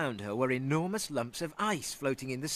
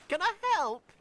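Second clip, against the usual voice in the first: high, fast, wondering cow; a dreamy blue cow wondering aloud; 3 dB louder than usual. Acted.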